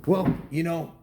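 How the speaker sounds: put-on loud, high hello to the kids; excited greeting. Dad greeting kids watching the video, loud and excited. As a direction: greet young fans with big energy.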